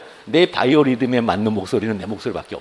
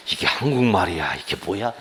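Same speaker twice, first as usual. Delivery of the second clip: exasperated student; 5 semitones lower, 3 dB quieter than usual. Retold or imitated. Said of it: "하면서".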